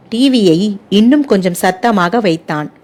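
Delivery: plain reading voice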